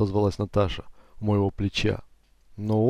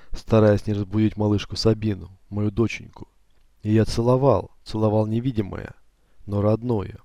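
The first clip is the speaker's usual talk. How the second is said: ordinary delivery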